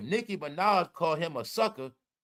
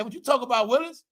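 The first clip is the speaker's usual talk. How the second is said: rising, higher catchphrase; quoting the catchphrase; 4 semitones higher, faster than usual. Retold or imitated. Quoting commenters, higher catchphrase. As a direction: toss the famous line up high. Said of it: "that's what they said".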